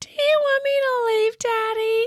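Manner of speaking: put-on tiny, very high child's voice. Imitating a voice heard on a recording: imitating a little girl's voice. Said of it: "That's how she sounds".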